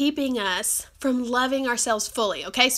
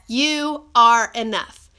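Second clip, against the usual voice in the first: YOU ARE ENOUGH, each word set apart, ENOUGH louder; emphatic reassurance; 6 dB louder, slower than usual. Real, not acted. Telling viewers who haven't heard it today, emphatic reassurance. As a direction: stress ENOUGH, giving each word its own beat.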